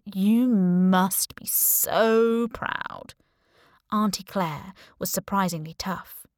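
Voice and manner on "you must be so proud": sarcastic. Acted. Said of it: "he said in his own voice".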